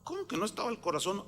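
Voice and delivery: fast, hushed incredulous question; retold disbelief. Pastor hearing the autopsy finding, incredulous. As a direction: question it quickly, as if not believing.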